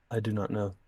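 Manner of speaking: flat robotic monotone. Acted. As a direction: speak like a robot, no inflection. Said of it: "Same robotic voice".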